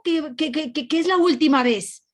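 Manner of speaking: stumbling over the words in retold alarm; stunned disbelief. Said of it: "pero estupefacta".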